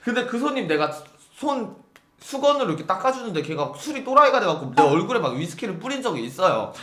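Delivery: ordinary talk, nothing marked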